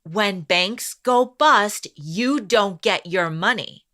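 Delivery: slow, weighty repeat of the line; dramatic retake. Shown as a demonstration. Co-host asks for it again, slow and dramatic. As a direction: say it slow and heavy, for effect. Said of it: "Say it again".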